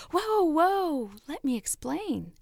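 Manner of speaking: a hint of a startled little teacup, quickly soothing; calm the frightened couple in a light teacup voice; talking teacup.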